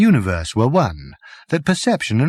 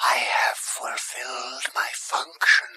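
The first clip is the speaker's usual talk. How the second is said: robot voice; 8 dB quieter, slower than usual. Acted. Robot's last words, whispered.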